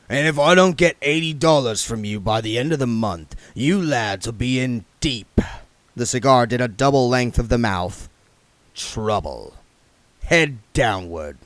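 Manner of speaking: the king warning the lads about the money; Harry King's veiled threat. Acted.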